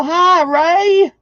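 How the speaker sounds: bright high sing-song hello; high greeting. Real, not acted. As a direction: call out hi up high. Greets viewer by name, sing-song.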